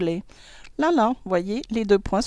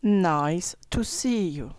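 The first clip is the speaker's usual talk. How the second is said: slower, careful nice to see you; slow model phrase; 2 semitones lower, slower than usual. Shown as a demonstration. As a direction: spell it out slowly for learners. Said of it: "Prenons l'expression". (lentement, bien articulé)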